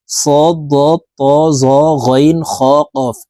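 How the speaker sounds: সদ দ ত জ গইন খ কফ said with heavy, thick Arabic sounds; thick letters. Shown as a demonstration. Teacher showing viewers the seven heavy letters, said thick. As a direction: voice সদ দ ত জ গইন খ কফ as full-mouthed emphatic letters. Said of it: "এই সাতটি হরফকে মোটাভাবে পড়ব".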